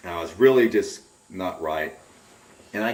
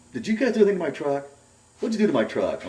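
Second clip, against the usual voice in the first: high-pitched, louder demand; imitated accusing phone call, pitched up; retold accusation; 10 semitones higher, 4 dB louder, faster than usual. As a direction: act out an upset friend demanding answers.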